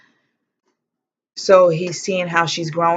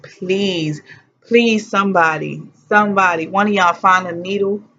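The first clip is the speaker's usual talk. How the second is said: begging; 3 semitones higher than usual. Retold or imitated. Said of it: "I was begging for the epidural".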